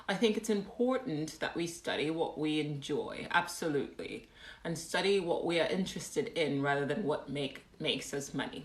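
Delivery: mock-British comment reading; awful British accent. Shown as a demonstration. Streamer reading a viewer comment, awful British accent. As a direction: read it out in bad British. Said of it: "in my awful British accent".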